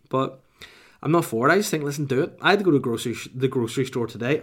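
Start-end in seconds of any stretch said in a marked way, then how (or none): 2.4-4.4 put-on slipping into an American accent. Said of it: "Oh, whoa, I just became American".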